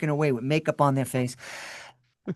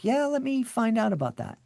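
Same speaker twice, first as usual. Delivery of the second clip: eager interest; 8 semitones higher, 4 dB quieter than usual. Retold or imitated. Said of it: "who are like".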